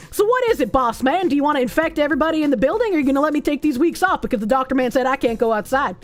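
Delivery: lightly put-on Southern accent. Caller telling boss man his options, in a light Southern accent. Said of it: "lapsing into, like, a fucking weird-ass Southern accent".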